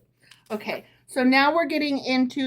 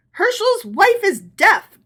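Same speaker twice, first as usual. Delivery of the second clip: breathless, much higher and louder, slow; gasped; 10 semitones higher, 7 dB louder than usual. A narrator's reading. Rabbi's wife to rabbi, gasping and strained. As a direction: gasp it out, spent. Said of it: "gasped his wife".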